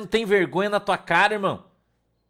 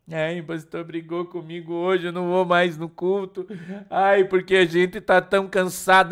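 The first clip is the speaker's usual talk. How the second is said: whiny churchgoer; 4 dB louder than usual. Retold or imitated.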